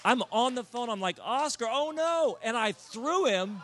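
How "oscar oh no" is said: loud, high cry of alarm; re-enacted panicked cry. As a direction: call out in mock horror as it slips away. Re-enacts accidentally flinging the fish.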